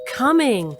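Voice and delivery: loud, high call with falling tune; irritated calling out. Acted. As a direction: holler it toward the door. Calls again to the door.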